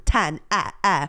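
"ten, eh" with an open eh; non-Southern vowel. Shown as a demonstration. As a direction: isolate the neutral eh after "ten". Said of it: "People that aren't from the South".

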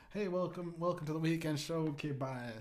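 high, hurried show intro; mock rival podcaster. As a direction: race from perky welcome to dropped sign-off. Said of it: "here's my impression of".

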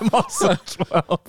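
put-on high, slow little kid voice. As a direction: play a twelve-year-old, slowly. Repeating the kid line.

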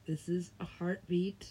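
dramatic whispered line. Pretend. Musing to friends, a dramatic whisper. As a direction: breathe it, voiceless.

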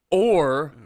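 loud eerie ghost moan; ghostly ooh. Retold or imitated. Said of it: "he said the sentence".

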